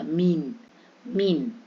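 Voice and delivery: मीन with an unstretched "ee"; ee not lengthened. Shown as a demonstration. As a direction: say मीन without drawing out the vowel. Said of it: "यानी कि लंबा नहीं होता".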